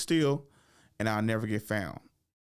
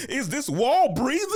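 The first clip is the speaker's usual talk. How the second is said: high, drawn-out incredulous question; mock puzzlement; 14 semitones higher, 7 dB louder than usual. Cousin searching in hide and seek, mock puzzlement. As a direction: stretch it out as if baffled, playing it for laughs. Cousin hears breathing in dark.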